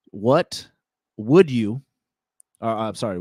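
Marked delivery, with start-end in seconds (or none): 0.1-1.8 stuttered start. Shown as a demonstration. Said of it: "the W".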